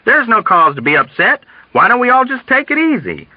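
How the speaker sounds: high, uncertain reassurance; good-natured but uneasy pleading; affable counsel. A narrator's reading. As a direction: try amiably to calm everyone. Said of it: "counseled affably with an uncertain grin".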